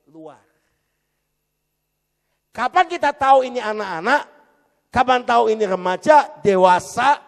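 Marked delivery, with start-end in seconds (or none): 2.6-7.2 loud, high preacher's cry to the congregation; fiery preaching. Acted. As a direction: thunder the question at the church. Preaching at full force.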